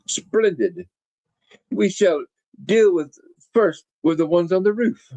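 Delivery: hammed-up foreign villainess accent; bad Baroness accent. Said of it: "my bad attempt at her accent".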